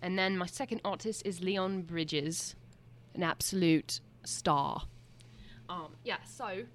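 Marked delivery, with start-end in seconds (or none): 0.0-4.8 a put-on British accent, lightly done; half-hearted British accent read. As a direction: play a chatty Brit with a mock-British lilt. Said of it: "you have to talk in a British accent".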